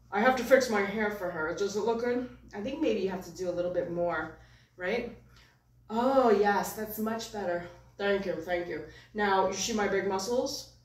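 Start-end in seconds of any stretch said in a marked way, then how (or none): 0.1-2.3 lightly voiced puppet, a bit louder; hint of a vain puppet character; puppet's own voice. Puppet fussing over his hair for a girlfriend, lightly put-on voice. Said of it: "he has also his own voice". 5.9-10.7 lightly voiced pleased puppet, big opening; hint of a show-off puppet character; puppet's own voice. Puppet thanking his puppeteer, lightly put-on show-off voice. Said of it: "he has also his own voice".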